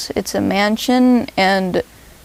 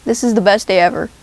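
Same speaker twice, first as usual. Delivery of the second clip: shouting. Retold or imitated. Shouting at a punk singer.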